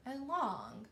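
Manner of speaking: "A long" sounded out in two parts, opening on a separate A; trying a vowel sound. Shown as a demonstration. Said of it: "tried both of those vowel sounds".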